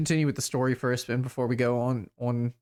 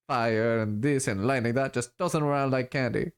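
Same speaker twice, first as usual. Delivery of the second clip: rambling boast in a hint of a muddled foreign accent; lightly voiced elf dealer. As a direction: lightly play a self-assured street mystic.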